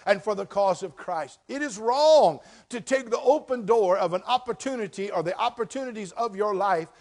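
loud, high preaching to the congregation; preaching at full force. Acted. Pastor to his church, loud full-force preaching. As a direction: thunder it from the pulpit.

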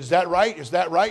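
loud, high, rising "is that right?"; loud incredulous question. Acted. Dimitri asking the preacher back, loud and rising. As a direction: call it out as if amazed.

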